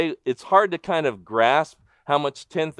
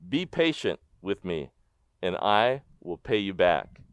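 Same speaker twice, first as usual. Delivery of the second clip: begging; 5 semitones lower, 4 dB quieter than usual. A narrator's reading. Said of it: "begged him".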